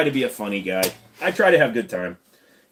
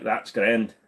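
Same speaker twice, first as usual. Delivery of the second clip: Irish accent; 2 semitones lower than usual. Shown as a demonstration. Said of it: "you can say things like".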